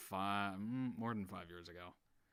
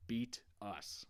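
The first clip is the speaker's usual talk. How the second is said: put-on Southern Brimley accent; 3 dB quieter, much slower than usual. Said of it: "he's got this Southern accent".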